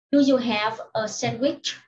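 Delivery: "Do you have a sandwich" read carefully, "have" and "a" kept apart; careful, separated words. Shown as a demonstration. Teacher reads question three to pupils, careful and word by word. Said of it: "Nếu như đọc nhanh".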